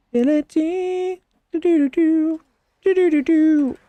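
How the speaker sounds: high, distant beeping voice; alien transmission. Acted. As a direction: sound like a signal from far away.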